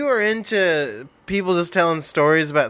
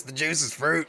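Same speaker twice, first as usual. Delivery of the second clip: weak Beetlejuice voice; 2 semitones lower, 6 dB quieter than usual. Pretend. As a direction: try the ghoul voice and miss. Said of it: "I can't do it at all".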